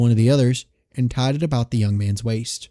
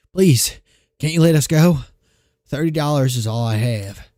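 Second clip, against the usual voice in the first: pleading; 2 semitones higher than usual. Acted. Mother begging at gunpoint.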